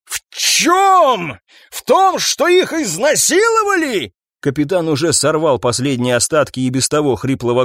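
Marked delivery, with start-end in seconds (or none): 0.1-4.1 high scornful questions; incredulous yell. Acted. Captain mocking the detectives' plan, high incredulous yell.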